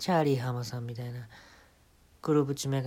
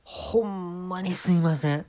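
tearful apology; 5 semitones higher, 4 dB louder than usual. Acted. Comic apologizes to the manager, near tears. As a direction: beg forgiveness on the verge of tears. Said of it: "ちょっと涙た".

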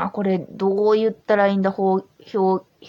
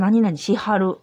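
Kyoto dialect; 3 dB louder than usual. Shown as a demonstration. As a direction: quote the Kyoto dialect form しはる. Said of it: "京都弁で言うと".

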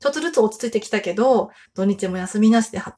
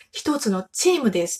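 broken Japanese. Retold or imitated. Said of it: "ちょっと片言の感じで".

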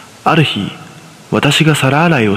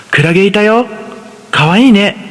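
put-on higher, eager child voice; higher-pitched excited young son; little boy voice; 8 semitones higher than usual. A narrator's reading. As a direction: voice a five-year-old begging his mother. Son finds a jellyfish.

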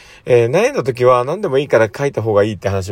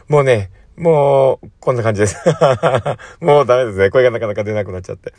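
hoarse voice. Real, not acted. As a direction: voice almost gone, rough and raspy.

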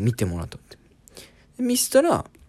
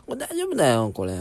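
put-on broken Japanese accent; 5 semitones higher than usual. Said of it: "この人片言で".

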